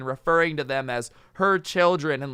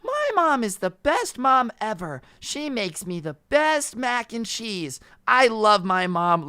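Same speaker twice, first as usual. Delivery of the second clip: put-on high-pitched, slow, gushing child; put-on doll kid bragging about mom; little kid voice; 8 semitones higher, 3 dB louder, slower than usual. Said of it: "like, in the little kid voice".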